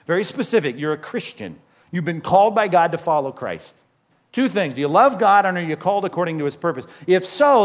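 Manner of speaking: ordinary talk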